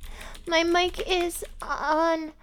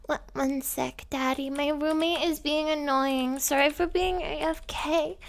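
put-on sweet, breathy e-girl act for a caller; girly gamer voice. Girl coos sweetly to Daddy on voice chat. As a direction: coo at Daddy, all sugar.

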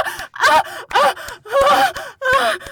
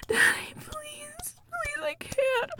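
trembling whisper; 7 semitones higher, 7 dB quieter than usual. Acted. Overwhelmed pleading.

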